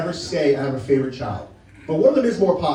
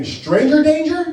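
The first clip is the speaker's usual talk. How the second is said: put-on kid screaming; 9 semitones higher, 5 dB louder, slower than usual.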